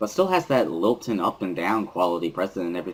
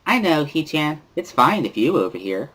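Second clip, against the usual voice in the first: put-on bubbly cheerful girl; 8 semitones higher than usual. Misha cheering that the group is together again, high bubbly girl voice. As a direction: squeal it out like an overexcited classmate.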